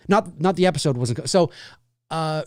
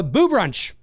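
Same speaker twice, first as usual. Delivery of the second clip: big booming announcer voice, higher; movie trailer voice; 6 semitones higher than usual. Retold or imitated. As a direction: punch the title like a promo announcer. Echoing the trailer he just played.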